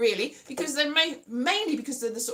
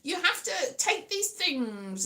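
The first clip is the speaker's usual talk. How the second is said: lightly mimicked know-it-all; patronising advice-giver; 4 semitones higher than usual. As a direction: imitate someone lecturing you. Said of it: "this person that was insulting me was like".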